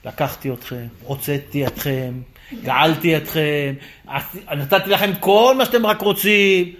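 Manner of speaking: slow, measured listing with pauses; God recounting favours. Acted. God reminding Israel of all He gave, slow and measured. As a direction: count off each favour slowly, starting low. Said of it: "מה הקדוש ברוך הוא אומר".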